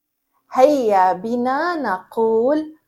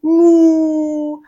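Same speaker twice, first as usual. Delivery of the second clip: loud mooing like a cow; pretend cow moo; 5 dB louder, much slower than usual. Shown as a demonstration. Teacher pretending to be a cow with the children, loud. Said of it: "هيا نتظاهر بأننا بقرة".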